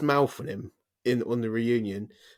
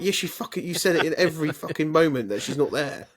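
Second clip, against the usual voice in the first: mock exasperated outburst; 5 semitones higher than usual. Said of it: "I was like".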